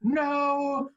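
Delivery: high, loud alarmed yell; a high loud shout of alarm; retold shout. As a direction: yell at him to stop, alarmed. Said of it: "funeral director looks at me and goes".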